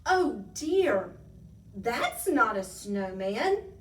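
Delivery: loud, drawn-out dismayed realisation; alarmed cry. A narrator's reading. Tiny seeing Bigfootosaurus emerge, loud alarm. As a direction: cry it out, stretching each word. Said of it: "cried Tiny".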